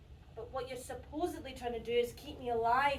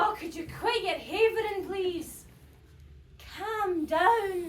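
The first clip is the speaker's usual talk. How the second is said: exasperated telling-off; 4 semitones higher, 5 dB louder, slower than usual. Acted. Patient cuts off the rant.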